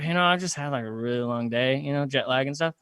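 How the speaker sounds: low, soft, fading as if nodding off; slowing down sleepily. Retold or imitated. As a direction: pretend to drift off mid-sentence. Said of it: "I just start slowing my speech down".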